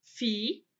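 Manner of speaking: "Filhinha" split fi-lhi-nha; long pauses between the syllables of "Filhinha". Shown as a demonstration. Teacher answering how to separate it, "Filhinha" in separated syllables. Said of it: "Como que a gente vai separar".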